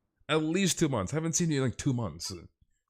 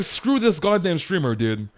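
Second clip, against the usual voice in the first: higher mock rude friend; mock voicing friend; 5 semitones higher, 4 dB louder than usual. Streamer mocking a friend who ignored him, higher mock voice. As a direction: voice the snubbing friend a bit higher. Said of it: "She's like".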